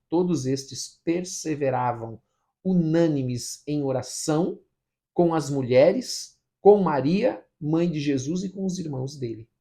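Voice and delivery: emphatic, measured Bible reading; scripture reading. Real, not acted. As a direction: read out each phrase with weight. Reads scripture aloud. (leitura bíblica enfática e pausada)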